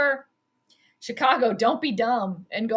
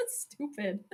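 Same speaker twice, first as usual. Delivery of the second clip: laughing disgust; 4 semitones lower, 14 dB quieter than usual. Real, not acted. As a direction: laugh it out in disbelief. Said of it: "laughing at the two-point try".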